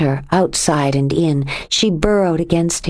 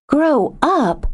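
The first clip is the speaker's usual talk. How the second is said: high, outraged echo; indignant; 9 semitones higher than usual. A narrator's reading. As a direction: throw the words back at him. Lexi outraged at Giff.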